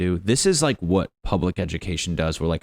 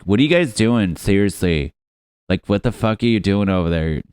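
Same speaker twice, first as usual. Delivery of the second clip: indignant Britain; 6 dB louder than usual. Acted. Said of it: "Britain was writing letters like".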